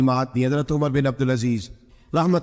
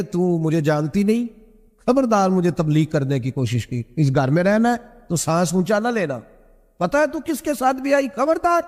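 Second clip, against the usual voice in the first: stern rebuke; 3 semitones higher than usual. Retold or imitated. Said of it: "میں نے جلال فرمایا".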